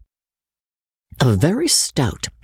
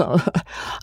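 nervous laugh; 5 semitones higher, 6 dB quieter than usual. A narrator's reading.

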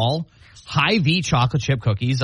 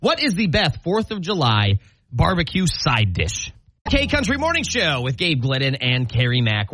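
radio host read; 2 semitones higher than usual. Acted.

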